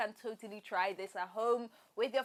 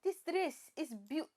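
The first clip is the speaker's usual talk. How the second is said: higher-pitched Hausa accent attempt; 4 semitones higher than usual. Shown as a demonstration. Host attempting the challenge, Hausa accent. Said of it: "should I say Hausa".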